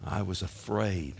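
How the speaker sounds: Adam owning up to his fear, hushed; afraid confession. Acted. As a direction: shrink into the admission.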